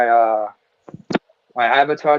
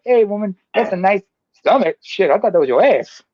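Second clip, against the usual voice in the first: higher, teasing pickup voice; mock pickup line; 5 semitones higher than usual. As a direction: hit on her like a clown. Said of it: "it's like".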